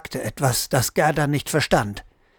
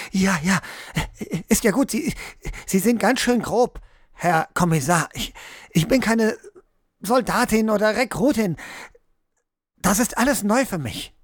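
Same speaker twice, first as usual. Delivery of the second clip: higher, indignant and flustered; flustered protest; 4 semitones higher than usual. Acted. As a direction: complain about rough handling. Gerda protests being shaken.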